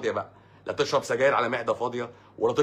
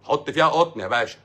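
punchy, louder order; emphatic; 3 semitones higher, 6 dB louder than usual. Real, not acted. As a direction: drive the instruction home.

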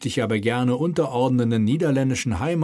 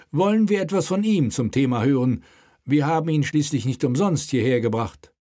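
raised, commanding royal voice; king's voice; 5 semitones higher than usual. Acted. King prods the mayor at the table, commanding.

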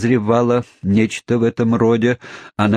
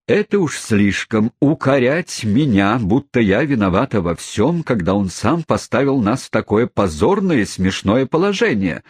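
a touch of a slowed, lamenting wail; half-hearted outraged lament; mild wail; 3 semitones higher than usual. Acted. Wife blaming husband for their shame, mild wail. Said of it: "возопила миссис Напкинс".

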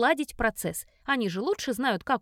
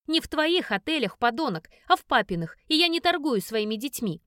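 loud, furious, accusing; angry shout; 3 dB louder than usual. Acted. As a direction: yell it in his face. Heroine shouting at stepfather. (гневный крик)

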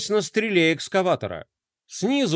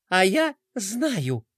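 cheerful; much slower than usual. A narrator's reading. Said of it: "бодро объявила Пинки".

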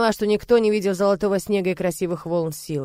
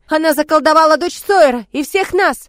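high, loud accusing yell; furious accusation; 9 semitones higher, 10 dB louder than usual. Acted. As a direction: rouse the mob against her. Mob accusing the witch.

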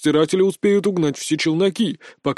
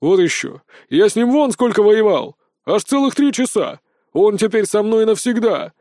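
put-on higher, louder indignant old soldier; protesting old mercenary; 6 semitones higher, 3 dB louder than usual. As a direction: protest stubbornly like a gruff old merc. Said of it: "запротестовал старый наёмник". (упрямо протестующий старый наёмник)

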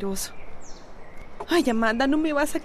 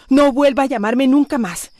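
firm angry warning; 6 dB louder than usual. Acted. Telling off her ex on the phone.

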